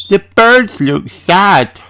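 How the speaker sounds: put-on a small girl feeling sorry for the birds; Peppa voice. A narrator's reading. Peppa sad for the hungry birds, high child voice. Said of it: "says Peppa".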